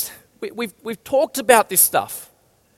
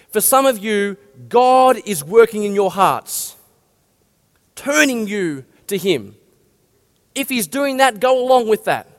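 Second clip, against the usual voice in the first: gentle appeal. Shown as a demonstration. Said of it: "say something like this".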